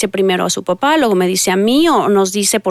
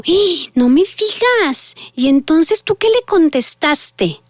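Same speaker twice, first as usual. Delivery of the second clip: higher, slow, interested "oh, really?"; engaged curious tone; 5 semitones higher, slower than usual. Shown as a demonstration. Mother to daughter on the school drive, eager and curious. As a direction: draw the child out with eager interest. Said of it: "estoy haciendo el tono como para que ustedes puedan ver".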